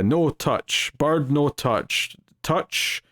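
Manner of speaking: slow, halting broken English, last word breathed. Retold or imitated. Blackthorn warning the Japanese staff off the bird, halting broken English. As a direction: spell it out word by word to someone who can't follow. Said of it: "he's just kinda speaking in broken words".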